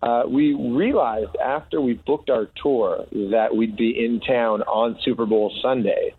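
big announcement voice; announcing big news. Acted. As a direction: declare it like breaking news. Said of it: "That's the announcement".

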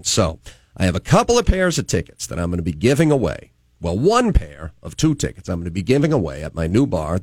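lively morning-radio patter with swooping emphasis; radio host announcing. Acted. Host plugging a ticket giveaway and introducing a guest, radio announcer delivery. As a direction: punch the key words like a radio presenter.

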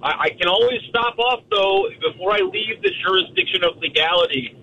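rough, gravelly voice on the phone. Real, not acted. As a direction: talk through a gravelly throat. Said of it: "in the gravelly voice form once again".

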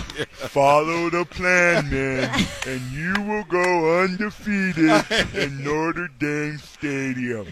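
Lou Holtz impression. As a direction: drag out each word like the coach delivering his promise. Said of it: "such a good impersonation".

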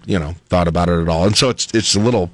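talking while knocking on the table; tapping the desk mid-sentence; banging the desk. Real, not acted. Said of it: "I gotta quit hitting the table".

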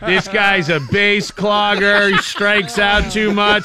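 slow, deliberate prosecutorial reading; mock solemn arbitrator. Mocking the arbitration case against him, slow and solemn. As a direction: read the charges like a judge.

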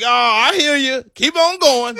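mock encouraging heckler.

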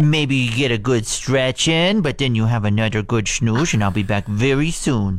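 lightly cooing pet talk, slowed down; dog voice. Retold or imitated. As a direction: soothe the dog gently before leaving. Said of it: "everyone has a dog voice".

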